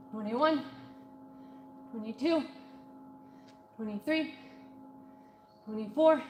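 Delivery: strained, breathy rep counting; counting reps mid-workout. Real, not acted. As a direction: count squats while working hard. Counting squats during live workout.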